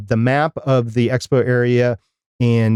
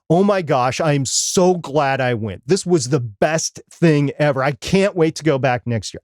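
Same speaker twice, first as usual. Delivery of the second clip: higher-pitched, mildly hammed-up rave; mock gushing; 4 semitones higher than usual. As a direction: imitate a thrilled attendee's gushing. Imagined gushing reaction he didn't have.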